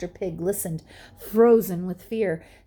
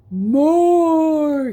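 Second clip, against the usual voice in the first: loud, higher booming demand; monster shout; 8 semitones higher, 10 dB louder than usual. A narrator's reading. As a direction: roar it at full force. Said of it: "he shouted".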